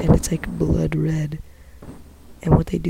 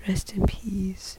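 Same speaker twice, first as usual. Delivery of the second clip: whispering; 3 semitones higher, 6 dB quieter, slower than usual. Real, not acted. Whispered aside.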